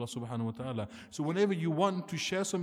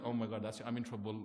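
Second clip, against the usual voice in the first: put-on lower, softer inner voice of a frightened child; scared child; 5 semitones lower, 5 dB quieter than usual. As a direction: mumble it like a kid bracing for a telling-off. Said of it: "the child is like".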